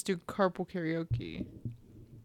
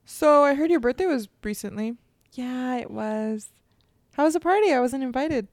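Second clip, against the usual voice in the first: mock talk show host; 3 semitones higher, 4 dB louder than usual. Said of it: "Be Ellen right now. Let's roleplay".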